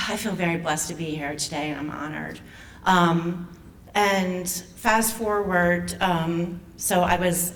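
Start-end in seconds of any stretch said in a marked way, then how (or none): 0.1-2.4 choked up. Real, not acted. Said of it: "Sorry, I'm getting emotional".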